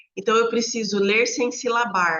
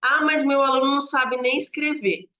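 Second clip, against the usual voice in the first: mock objecting teacher; 5 semitones higher, 3 dB louder than usual. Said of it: "Gente, leitura e escrita são processos diferentes".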